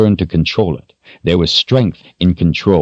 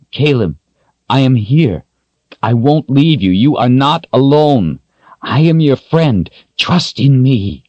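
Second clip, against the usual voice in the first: reassuring man voice; 7 semitones higher than usual. Acted.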